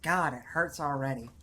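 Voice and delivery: put-on labored Southern accent, complaining. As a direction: strain to keep up a Southern accent. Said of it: "to do this accent".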